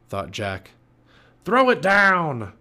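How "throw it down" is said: slow, high, loud pirate command; crying out. A narrator's reading. Captain Bones demanding the medallion, loud cry. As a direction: holler the greedy order up. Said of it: "cried Captain Bones".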